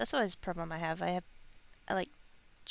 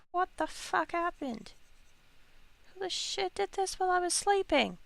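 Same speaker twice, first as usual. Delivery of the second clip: high and loud, baffled and indignant; mock outrage; 11 semitones higher, 5 dB louder than usual. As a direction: play waking up to a stranger's mess. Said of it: "you're like".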